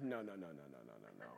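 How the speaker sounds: mock refusal. Retold refusal of God's call.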